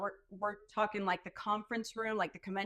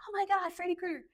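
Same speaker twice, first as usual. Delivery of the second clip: fangirl squeal; 10 semitones higher, faster than usual. Retold or imitated. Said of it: "I didn't wanna be like".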